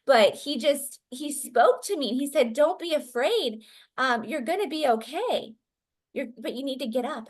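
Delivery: a boy urging to be believed, lightly acted; imitated earnest child. Son telling mother about the man he saw, earnest imitation. Frightened son insists on what happened.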